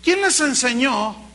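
pregunta lenta y dura; reproche severo. Retold or imitated. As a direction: reprende con autoridad. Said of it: "No, no se asusten". (Juan el Bautista regaña a la gente)

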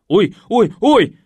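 loud rising cries of pain; groaning in pain. Acted. Man hops about as the razor torments him. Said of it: "простонал я".

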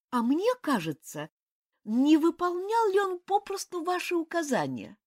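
высоким голосом, возмущённо; юная княгиня обличает; возмущённая княгиня. A narrator's reading. Обиженная княгиня. (княгиня возмущённо бросает упрёк)

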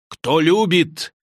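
slow, searching reproach; slow pointed question. Acted. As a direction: drag out "Кто любит?" slowly, leaning on "любит". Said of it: "гневно обрушился".

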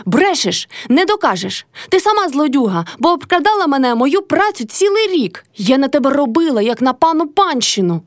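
high, heated retort; shouting back. A narrator's reading. Motria shouting back at her mother-in-law. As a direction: throw the accusation right back at her. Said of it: "кричала Мотря".

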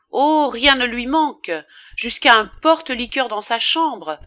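loud, driving list of accusations; indignant tirade. A narrator's reading. Woman listing her rich lover's comforts, with loud indignation. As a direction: pile up each item with rising outrage.

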